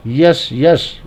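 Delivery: यश, यश as two separate words; said separately. Shown as a demonstration. Teacher has pupils say it twice, clearly separated. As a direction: leave a small gap between यश and यश. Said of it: "बोलेंगे अलग अलग".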